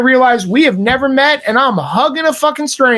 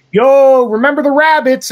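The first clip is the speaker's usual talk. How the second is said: raised, eager imitated hail; mock buddy enthusiasm; 3 semitones higher than usual. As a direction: bring up an inside joke like an old pal. Acts out stranger's inside joke.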